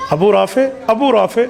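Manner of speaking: lightly voiced servant calling his master's name; a hint of a servant calling his master in the dark; servant's voice. Companion mimics the servant's voice to find his target in the dark. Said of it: "آواز اس طرح کی ہے جیسے اس کا خادم بولتا تھا".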